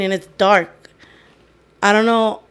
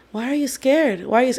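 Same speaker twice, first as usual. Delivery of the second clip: lightly voiced little girl, higher pitch; 3 semitones higher, 3 dB quieter than usual. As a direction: ask it like a puzzled small child. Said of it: "talking like a little girl".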